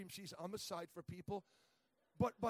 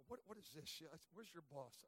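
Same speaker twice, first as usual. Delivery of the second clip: softer, clipped muttered demand; quiet mock snap; 3 semitones lower, 7 dB quieter than usual. Preacher recalling his muttered complaint, quiet and curt. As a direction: say it under your breath, irritated. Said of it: "I wanted to say".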